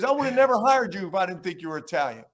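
retold exasperated outburst; mock scolding. Coach retold, scolding the new assistant.

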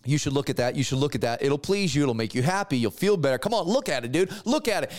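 the devil luring you to look; tempting devil. Acted. Devil voiced tempting the listener.

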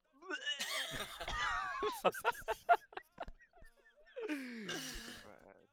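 loud mock retch breaking into laughter; comic retching sound; imitated vomiting. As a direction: act out a sudden puke noise, high and strained. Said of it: "se escucha así en pleno silencio".

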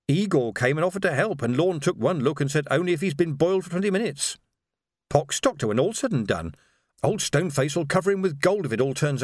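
a servant complaining about the doctor; gossiping housekeeper. Acted.

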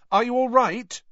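high, loud urgent question; loudly concerned, pitched well up. A narrator's reading. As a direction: raise your voice to check on him. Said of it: "Harry said loudly".

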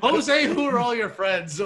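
high, slow, loud mom impression. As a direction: call out like the annoyed mom. Mocking mom's line, laughing.

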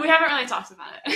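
quick, laughing denial; nervous laugh. Real, not acted. Asked about him moving for you, real nervous laugh. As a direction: hurry through it with a nervous laugh. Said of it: "a nervous laugh".

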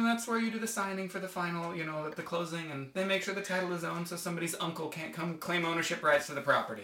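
lightly voiced, rattled-off canned answer; templated stock answer. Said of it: "the templated answer".

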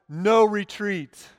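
slow, deliberate reading of the words; measured solemn inscription read; slow solemn quote. Acted. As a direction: space the words out slowly. Written words read slowly.

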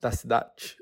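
hiccuping mid-sentence; with hiccups. Real, not acted. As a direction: talk through the hiccups. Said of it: "Ai, gente, eu tô com soluço".

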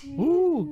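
sudden high sneeze; sneezing. Real, not acted. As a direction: let a sneeze burst out. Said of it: "Sorry, I'm gonna sneeze".

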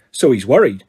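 low, grimly satisfied; mild grim satisfaction. A narrator's reading. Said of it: "with grim satisfaction".

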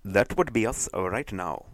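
put-on slow Indian accent. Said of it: "translate it in an Indian accent".

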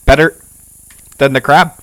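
lightly voiced insect chief; insect man voice. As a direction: answer like a pleased insect chief. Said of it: "he's like".

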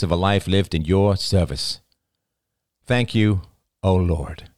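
projected, measured prayer; solemn grace. A narrator's reading. Oliver's father saying grace before dessert, solemn prayer. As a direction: pray aloud in deliberate phrases.

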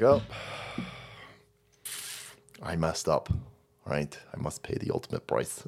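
low, hushed, grave mock confession; mock solemn whisper. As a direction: whisper it like a doomed samurai. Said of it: "I'd be like".

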